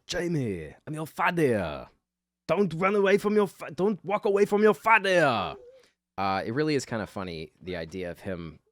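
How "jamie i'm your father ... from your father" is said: high, loud hammed-up dad pleading; mock dad yell. Dad yelling after his walking-away son, hammed up and loud. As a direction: bellow after the kid like a desperate sitcom dad.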